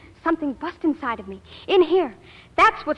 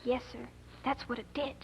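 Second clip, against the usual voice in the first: faked lost voice; 2 semitones lower, 14 dB quieter than usual. Faking a lost voice.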